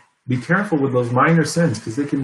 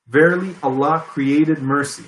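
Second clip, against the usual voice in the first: slow, measured reading of a translation. Real, not acted. Preacher reading a hadith to listeners, really slow. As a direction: read it out slowly, word by word. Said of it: "gonna read it really slow".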